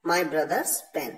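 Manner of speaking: very slow; slow dictation. Shown as a demonstration. Teacher repeating the example slowly. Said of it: "और दूसरे तरीके से".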